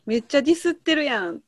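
quick Kansai retort; 関西弁で早口に「めっちゃディスってるやん」; Kansai dialect. Shown as a demonstration. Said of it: "めっちゃ関西弁すいません". (関西弁の軽いツッコミ、早口で)

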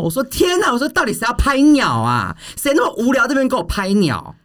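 high-pitched, incredulous exclamation as retold; loud, flustered outburst. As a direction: re-enact a flustered outcry, pitch shooting way up. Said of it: "我就很大声说".

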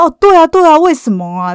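high, loud, hasty yes-yes; teacher in a cold sweat, quickly agreeing; nervous agreement. Retold or imitated. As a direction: cover up guilt by agreeing too eagerly. Guilty teacher fakes agreement.

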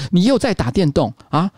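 nagging mom telling off her son, lightly acted; mild mock scolding; mock angry mom. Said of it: "他妈妈很生气的说".

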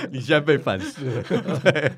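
high laugh then giggly words. Real, not acted. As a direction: laugh while teasing. Laughing at friend's joke.

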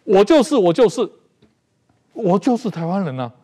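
emphatic declaration. Shown as a demonstration. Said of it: "容我引用那圣经这句话".

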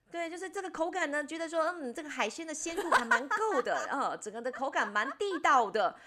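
high, hammed-up food critic tone; mock earnest reviewer. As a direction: pretend to savour it seriously. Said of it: "煞有其事的在那边讲".

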